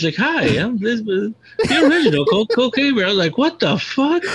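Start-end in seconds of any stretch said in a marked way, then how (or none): 0.2-3.1 mock serious intro. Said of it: "he said it so serious". 3.4-4.2 squeaky high laughing cry; what the fuck, laughed out high and breaking; laughing disbelief. Real, not acted.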